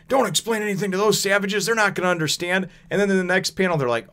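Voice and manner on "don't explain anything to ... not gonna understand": dismissive sneer. Retold or imitated. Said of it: "Usopp's like".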